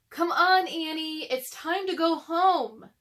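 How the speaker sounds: Jack calling. A narrator's reading. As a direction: call her home, a bit impatient.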